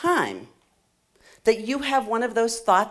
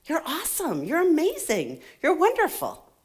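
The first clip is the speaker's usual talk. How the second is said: higher-pitched, tender gushing praise; reassuring a daughter; 7 semitones higher than usual. Acted. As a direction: reassure your child in a high, affectionate lilt. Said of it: "I'd say".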